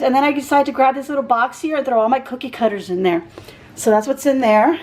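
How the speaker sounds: breathless, catching her breath. Real, not acted. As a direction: talk while winded. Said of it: "I am so out of breath".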